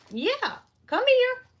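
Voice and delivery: high, slow pet-calling voice; coaxing call. Real, not acted. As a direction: draw out the call sweetly. Calling the goose.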